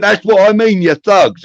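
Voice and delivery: a prissy boss pointing a finger; indignant posh voice. Retold or imitated. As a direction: pitch it up like an offended snob. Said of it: "he looked at me and he went".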